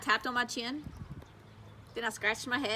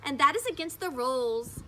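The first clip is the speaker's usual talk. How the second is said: tattling; 8 semitones higher than usual. A narrator's reading. May tattling to teacher.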